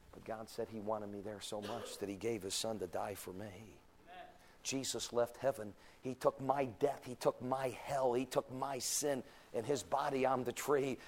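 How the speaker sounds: soft preaching. Acted. Preacher tells what Jesus took, softly. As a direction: come right down gently. Drops to soft after climax.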